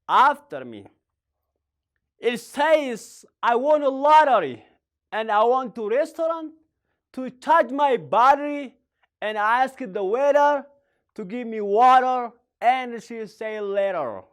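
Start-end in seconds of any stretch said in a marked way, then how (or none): 3.4-14.2 tongue twister demo. Shown as a demonstration. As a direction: model it phrase by phrase for learners. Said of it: "I want to say one thank you, sir. Please try to just twist".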